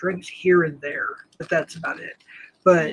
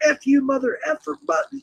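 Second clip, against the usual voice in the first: high-pitched imitation of an angry rant; mock cussing yell; 8 semitones higher than usual. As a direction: mimic yourself yelling curses, without real volume. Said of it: "I was yelling at and cussing out".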